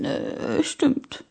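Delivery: sheepish whisper. Acted. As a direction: admit it under your breath.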